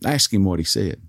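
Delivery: a touch of indignation, held back; demanding. Retold or imitated. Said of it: "she demanded".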